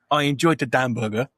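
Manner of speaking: "Dan Burger" as a mangled "hamburger"; mock mispronunciation. Fan defends the film's hamburger gag, imitating the botched "Dan Burger". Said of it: "saying hamburger and fucking it up".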